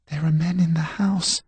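put-on high, anxious young servant; frightened boy voice. A narrator's reading. Frightened serving boy reports.

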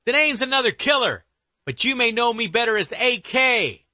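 high, eerie villain voice; dark whisper behind you. Acted. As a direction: sneer your name from the shadows. Killer introduces himself.

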